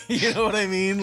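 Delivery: said through a laugh; laughing question. Real, not acted. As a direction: still chuckling at own joke. Laughing after own joke.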